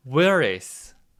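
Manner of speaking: heavy stress placed on the opening word Where. Repeating a short question opener in a drill: stress on Where. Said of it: "강세는 맨 앞에 넣어주시면 돼요".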